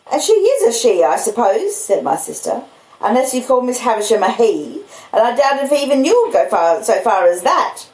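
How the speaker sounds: high, sharp scolding woman; the stern older sister bursting in; sister's voice. Acted. Mrs Joe retorts.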